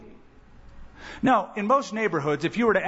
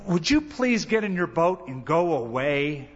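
mock townspeople. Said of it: "And they said".

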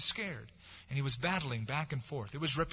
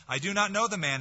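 higher, forceful swearing denial; cursing denial; 5 semitones higher, 4 dB louder than usual. Acted. Peter cursing at the bystanders, loud and angry. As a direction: spit it out as a cornered curse. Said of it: "He began to curse and swear".

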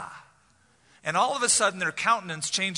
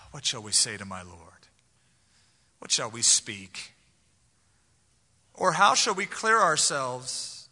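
despairing plea; 2 semitones lower, 3 dB louder than usual. Retold or imitated.

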